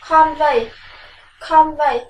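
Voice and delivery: "Convey" with loud stress on the first syllable, CON-vey; teacher drills "Convey" loud with first-syllable stress; stressed model word. Shown as a demonstration. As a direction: hit CON hard, then drop on "vey". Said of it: "Now, listen".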